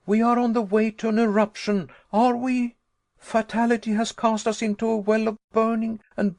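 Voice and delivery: high, loud, rushing outrage; exasperated tirade. Acted. Nephew railing at uncle about the eruption, high and exasperated. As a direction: pile up the horrors in fury. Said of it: "in the height of my exasperation".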